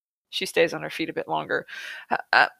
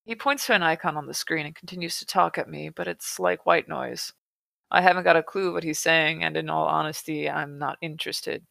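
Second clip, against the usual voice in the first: story narration; 2 semitones lower, 4 dB quieter than usual. A narrator's reading. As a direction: read it out quietly, voice sinking at phrase ends. Reads the book aloud.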